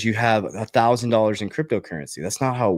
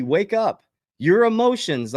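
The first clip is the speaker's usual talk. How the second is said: urgent call; 8 semitones higher, slower than usual. Real, not acted. To viewers panicking over the market, a high urgent wake-up call. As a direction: jolt them awake.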